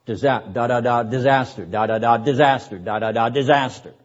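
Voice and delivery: "da, da, da, disaster" tapped out in a staccato beat; staccato rhythm. Shown as a demonstration. Teacher drumming out the staccato for his class, beat by beat. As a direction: drum out each "da" and land hard on "disaster".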